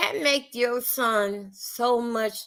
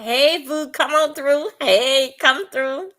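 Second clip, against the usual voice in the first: sing-song, higher mock invitation, a touch louder; mock greeting; 5 semitones higher, 4 dB louder than usual. Vlogger mocking the son's greeting to Tasha K, sing-song. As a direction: lightly mimic a smooth-talking young man calling someone over.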